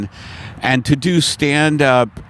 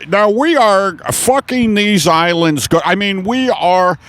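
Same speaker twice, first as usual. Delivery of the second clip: lightly voiced boardroom presenter; put-on corporate speech; oil executive; 5 semitones higher than usual. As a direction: press on as a mock boss. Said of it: "the Shell Oil executives who have meetings".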